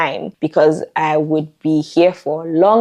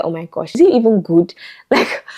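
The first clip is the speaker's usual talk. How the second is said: flustered self-talk; 2 semitones higher than usual. Retold or imitated. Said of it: "I'll just be like".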